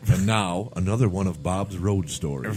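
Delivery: announcer. Pretend. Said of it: "We should have a special segment".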